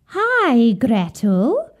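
high hailing call. Acted. Witch calling Gretel to fetch water, high call. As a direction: call her over from across the room. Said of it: "she called to the girl".

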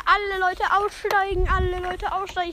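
high sing-song call; bus driver's announcement. Acted. Bus driver telling everyone to get off, calling out. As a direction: call it out to the passengers.

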